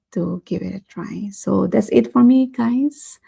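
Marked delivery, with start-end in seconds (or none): 1.3-3.2 losing her voice, strained and hoarse. Real, not acted. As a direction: speak through a hoarse, failing voice. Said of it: "Losing my voice again".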